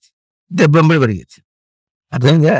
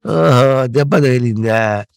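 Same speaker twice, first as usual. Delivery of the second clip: calm shrug-off; 6 dB louder, much slower than usual. Shown as a demonstration. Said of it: "అను".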